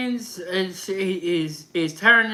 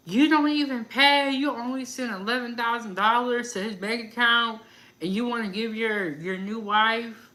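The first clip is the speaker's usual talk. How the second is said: higher, scolding mom voice; imitating the mom; 3 semitones higher than usual. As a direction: throw her complaint back mockingly. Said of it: "the mom was like".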